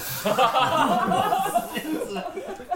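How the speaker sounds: bursts into high laughter; amused high laugh. Real, not acted. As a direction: laugh out loud in disbelief. Reacts to host eating on air.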